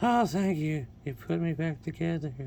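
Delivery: high falsetto toy voice; female voice. Pretend. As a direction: squeak it up like a lady figure. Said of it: "That's my female voice".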